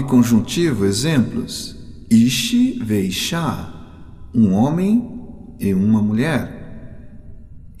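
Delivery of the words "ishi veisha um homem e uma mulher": 1 modeled example. Shown as a demonstration. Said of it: "models Hebrew example".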